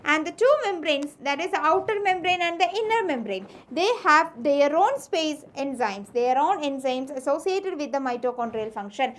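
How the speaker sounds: slow, deliberate textbook dictation; teacher dictating notes slowly. Shown as a demonstration. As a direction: read it out word by word for notes.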